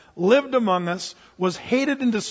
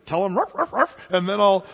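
eager promise; 3 semitones higher, 4 dB louder than usual. Retold or imitated. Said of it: "I'm gonna go".

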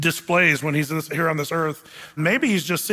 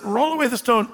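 "Roll away the stone" said higher, as a ringing command; commanding Lord; 6 semitones higher than usual. Acted. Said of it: "So the Lord says".

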